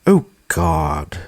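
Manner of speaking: condescending groaning snob; snobby voice. Acted. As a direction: sigh it out like a snob. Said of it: "groans in her highbrow, condescending, snobby snob voice".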